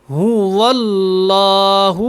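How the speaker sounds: هو اللہ with و clearly sounded, slow; و sounded in the middle. Shown as a demonstration. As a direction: hold the و between ہ and اللہ. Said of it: "واو کو آپ نے بیچ میں پڑھنا ہے". (واو درمیان میں واضح)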